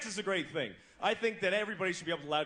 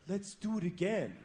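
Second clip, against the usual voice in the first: creepy. Retold or imitated. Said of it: "creepy like that".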